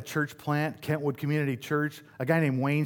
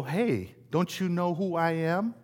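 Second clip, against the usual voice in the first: mock puffed-up boast, slightly higher; cocky swagger; 3 semitones higher than usual. Pastor imitating a proud person demanding recognition, mock cocky. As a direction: play the big shot who expects to be recognized. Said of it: "What are the things that you can get a little".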